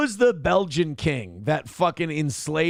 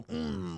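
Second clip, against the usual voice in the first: mock pouty hum; 4 semitones higher, 11 dB quieter than usual. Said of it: "you put on these, like, lemon face, you go".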